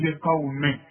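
لقومه with short final vowel; لقومه said as in connected reading; recite lqawmihi. Shown as a demonstration. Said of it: "تقول". (لقومه بدون مد عند الوصل)

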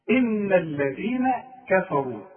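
slow إن الذين كفروا, each letter clear; careful recitation. Shown as a demonstration. Teacher repeating the model verse slowly. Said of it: "ادي كل حرف حقه".

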